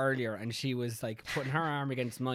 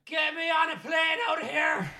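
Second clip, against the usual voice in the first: high, slow pleading cry; hammed-up wail to escape the country; desperate plea; 14 semitones higher, 3 dB louder, slower than usual. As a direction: beg to be flown away, hammed up. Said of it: "as you can tell, eager to get out".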